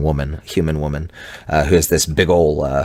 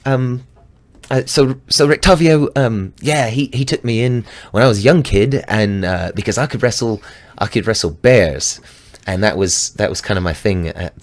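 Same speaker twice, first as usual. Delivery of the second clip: put-on bubbly, much higher girl's voice; chipper young woman; 6 semitones higher than usual. DM voicing Dee greeting the party, high and chipper. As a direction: bounce it out, all sunshine. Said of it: "she's very chipper".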